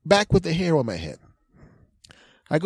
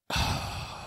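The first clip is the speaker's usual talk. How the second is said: long sigh; 8 dB quieter than usual. Retold or imitated. His reaction on coming round.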